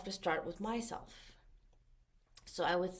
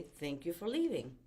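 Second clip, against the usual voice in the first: "Thank you for leaving" said softly and gently; 2 semitones lower, 4 dB quieter than usual. Shown as a demonstration. Coach gently dismissing a recurring negative thought, soft. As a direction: let the thought go kindly. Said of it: "So I very gently will say".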